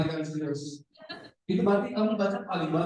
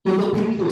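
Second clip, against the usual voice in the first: "Tutup pintu" as a brisk command; exclamation-mark intonation; 2 semitones higher, 4 dB louder than usual. Shown as a demonstration. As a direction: give "Tutup pintu" as a mild order. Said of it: "Coba tanda seru".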